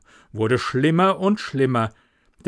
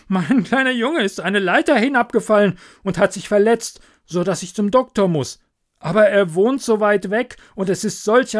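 loud and much higher, pressing; anxious miller; 5 semitones higher, 5 dB louder than usual. Acted. Miller pleading with Hans on a stormy night, loud and higher. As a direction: urge him, raise the voice over the storm. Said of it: "rief der Müller".

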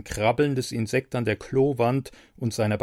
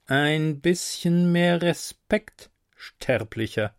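admonishing; 4 semitones higher, slower than usual. Acted. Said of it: "mahnte er nur".

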